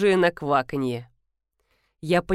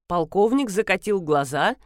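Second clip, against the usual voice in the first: ordinary delivery, nothing marked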